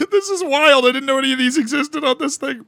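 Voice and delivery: squeaky high voice; high voice changer. Real, not acted. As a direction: chipmunk filter talking. Voice changer effect.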